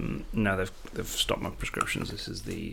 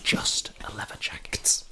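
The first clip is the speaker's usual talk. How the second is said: whispering. Acted. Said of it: "why are you whispering so much?".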